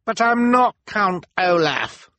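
high, slow, pleading cry; cried protest. A narrator's reading. Jacques protesting his innocence, high pleading cry. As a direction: beg them to listen. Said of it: "the man cried".

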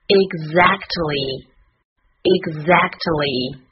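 "exactly" said very slowly, each syllable distinct; slow pronunciation model. Shown as a demonstration. Teacher modelling the word for learners, "exactly" slow and careful. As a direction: draw out "exactly" for learners to copy. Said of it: "我们来看一下发音".

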